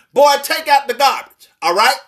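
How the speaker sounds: a mother asking again with a bit of an edge; mother repeating the chore with mild authority; firmer calm mother. Retold or imitated. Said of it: "she was still calm, but she put a bit more authority in her voice".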